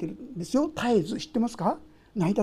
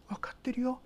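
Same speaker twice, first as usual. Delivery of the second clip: whispered reassurance; tender whisper; 2 semitones higher, 10 dB quieter than usual. Pretend. God reassuring a burdened believer, tender whisper. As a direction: whisper it like comforting a child.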